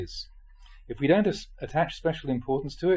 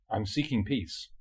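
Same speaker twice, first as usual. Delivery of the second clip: quiet earnest reply; 3 semitones lower, 5 dB quieter, slower than usual. Retold or imitated. Monk's reply, quoted.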